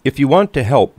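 gruff, loud, puffing engine; puffing gruffly. Acted. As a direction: brush her off with a gruff puff. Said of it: "puffed Diesel Engine".

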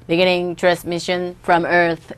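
steady, even machine tone; flat robot announcement, slowly; monotone machine. Shown as a demonstration. Teacher repeats the machine line in an even robot tone. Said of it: "항상 일정한 톤으로 쫙".

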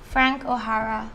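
measured poetry recital, phrase by phrase; recited love poem with lifted line openings; poem reading. Acted. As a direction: read the poem aloud to listeners, pausing between lines.

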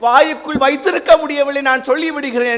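high, loud pleading lament; the prophet Jeremiah complaining to God, loud and pleading; prophet's lament. Acted. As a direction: cry out to God like a wounded prophet. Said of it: "Jeremiah ... ஆண்டவனிடம் புலம்புவதை".

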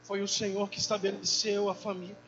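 fervent prayer. Retold or imitated. Husband praying over his relationship and family, fervent prayer. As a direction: plead with God aloud, pausing between phrases. Re-enacts praying aloud with wife.

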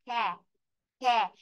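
"khe" with a spread æ vowel; isolated "khe", mouth open as for a; æ vowel demo. Shown as a demonstration. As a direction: model "khe" as a sound between a and e. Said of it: "É be chúng ta sẽ đọc này".

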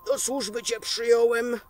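gruff demanding farmer, loud at the threat; lightly voiced cruel master; harsh farmer. (zły gospodarz surowo żąda gąsek)

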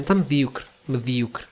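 "medíocre" stressed on the Í. Shown as a demonstration. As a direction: say "medíocre" with the accent on the I. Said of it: "com acento no i". ("medíocre" com acento tónico no i)

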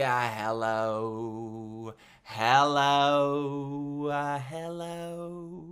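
low, drawn-out goofy hello voice; a goofy low-voiced greeting for the kids; silly deep hello. Entertainer greets the kids in a low goofy voice.

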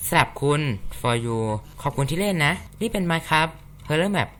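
slow, lightly put-on suave announcer; handsome voice. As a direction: read the credits slowly in a mock handsome voice. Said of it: "เดี๋ยวผมต้องทำเสียงหล่อด้วย".

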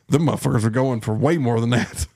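ordinary delivery

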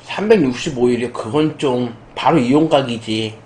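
speaking between bites of drumstick; talking while chewing. Real, not acted. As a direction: mouth partly full of chicken. Seen 2: Holds drumstick at mouth throughout, seems to be chewing, bites at end.

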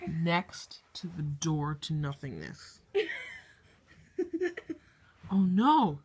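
hushed wildlife narrator voice; nature documentary. Acted. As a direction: narrate like a nature show host.

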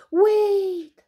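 high, loud urgent shout; drawn-out shouted plea to stop. Acted. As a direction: call out after someone running off. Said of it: "shouted Alby".

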